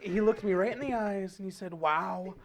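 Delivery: boastful presidential impression, savouring each phrase; comic politician voice with self-satisfied asides; Trump. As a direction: impersonate the politician telling a brag. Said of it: "by chanting Trump".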